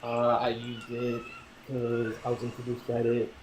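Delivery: distant from the phone mic; speaking too far from the mic. Real, not acted. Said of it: "you sound like you're far away from the phone".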